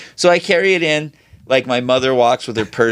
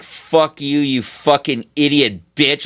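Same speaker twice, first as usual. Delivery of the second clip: slow, contained mock seething; hatred through a smile; 3 semitones higher, slower than usual. Salesman silently cursing a returning customer, imitated seething through a smile. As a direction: let volcanic hatred leak through a fixed smile. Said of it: "the most volcanic hatred comes out of you".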